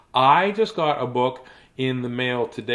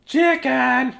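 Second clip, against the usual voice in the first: higher stern-ish papa; 10 semitones higher than usual. Acted. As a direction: call the chick to order. Father calls chick.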